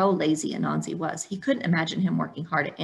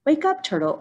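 raised, higher wake-up call; 9 semitones higher than usual. Acted. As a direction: call him awake from sleep. Waking sleeping Turtle.

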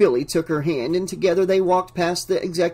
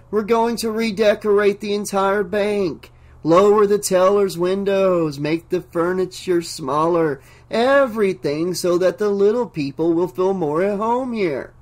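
higher, grand, trance-like announcement; strange dazed voice; 4 semitones higher than usual. Acted. Entranced banker announces plans to visitors, higher strange voice. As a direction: proclaim it like a dreamy visionary. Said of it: "continued in the same strange voice".

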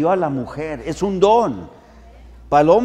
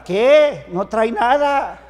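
louder, higher gruff dad; dismissive father; 5 semitones higher, 4 dB louder, slower than usual. Retold or imitated. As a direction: brush it off, loud. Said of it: "Y mi papá". (papá despreocupado, más fuerte y agudo)

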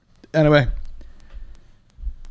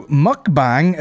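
slow, stretched mukbang; drawn out; 5 semitones higher than usual. Real, not acted. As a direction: stretch the word out. Drawn out new word.

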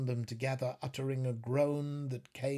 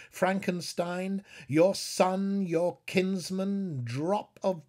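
louder, higher declamation; impassioned; 7 semitones higher, 6 dB louder, slower than usual. A narrator's reading. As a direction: call the names out like a lament. Dramatic climax read.

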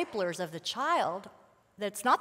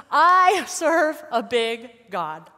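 slow, louder declaration of "I serve a big God"; proclaimed; 2 semitones higher, 10 dB louder, much slower than usual. Shown as a demonstration. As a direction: declare it with conviction. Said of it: "mom identity statement".

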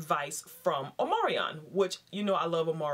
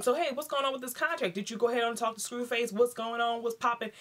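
eager wife; 5 semitones higher than usual. Retold or imitated. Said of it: "basically she asks him".

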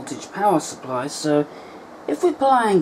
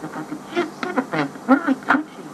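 tinny carbon mic recording; gritty early microphone. Real, not acted. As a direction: voice through a crackly carbon microphone. Here's some test recordings.

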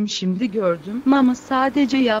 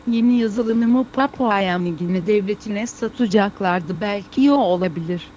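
foreigner Turkish. Acted. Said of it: "biz bu Türkçeyi yeni öğrenenlere".

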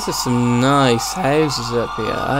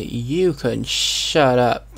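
threatening; much slower than usual. Acted. Threatening a heckling voice.

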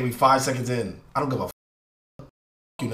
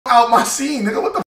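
higher, louder mock yell telling him off; retold yell; 10 semitones higher, 4 dB louder, faster than usual. Retelling kicking a guy out of his scene, yelling. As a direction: bark him out of your scene. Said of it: "I told the nigga".

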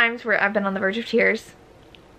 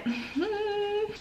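high soft giggle; 10 semitones higher, 10 dB quieter than usual. Real, not acted. Reader losing it over book.

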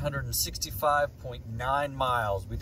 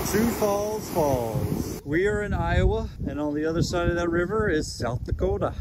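high, stretched put-on South Dakota accent; mock South Dakota accent; 5 semitones higher than usual. Traveler showing off Sioux Falls, hammed-up South Dakota accent. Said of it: "if that was a South Dakota accent".

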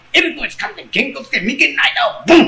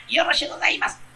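fox's polite reply; 4 semitones higher, 7 dB quieter, faster than usual. Acted. Fox agrees politely.

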